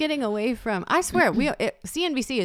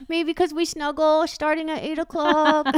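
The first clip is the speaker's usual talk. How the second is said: slow, higher, through a laugh; mock guilty reply; 5 semitones higher, 4 dB louder than usual. Mom mocking her own excuse, slow and laughing. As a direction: confess it while laughing.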